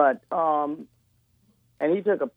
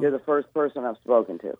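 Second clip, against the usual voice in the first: raspy voice; 2 semitones lower than usual. Real, not acted. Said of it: "Forgive my raspy voice".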